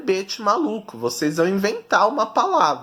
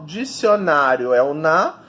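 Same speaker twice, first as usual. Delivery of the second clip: "dicionário" with NÁ stretched; stress on NÁ; 2 semitones lower than usual. Shown as a demonstration. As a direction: lean on the NÁ in "dicionário". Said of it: "descobrir qual é a sílaba tônica".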